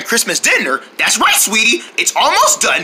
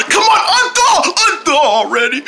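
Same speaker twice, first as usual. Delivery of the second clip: yelling across the room; 8 semitones higher than usual. Acted. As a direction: shout at the stubborn turkey. Mom shouting at frozen turkey.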